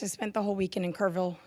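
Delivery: hoarse, worn voice from cheering. Real, not acted. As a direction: voice still hoarse from hollering. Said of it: "excuse my voice".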